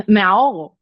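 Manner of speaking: gasping, choking on too much air. Shown as a demonstration. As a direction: laugh then gasp out choking. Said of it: "es como". (ahogándose con el aire, jadeando)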